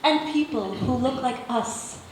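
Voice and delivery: measured spoken-word delivery; deliberate poem reading with pauses between images; poetry recital. Acted. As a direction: read your poem to an audience, phrase by phrase. Recites own poem to audience.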